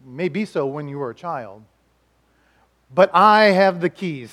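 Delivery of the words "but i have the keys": slow emphatic. Shown as a demonstration. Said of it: "Say it with me".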